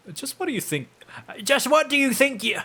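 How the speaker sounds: high-pitched scolding crone voice; hammed-up hag, rising on each "eh"; indignant old hag. Hag confronting intruders at the flowers, indignant high voice.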